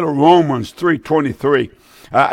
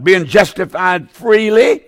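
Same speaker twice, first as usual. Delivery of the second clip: slow emphatic reading; 3 semitones higher, slower than usual. Shown as a demonstration. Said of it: "Listen now".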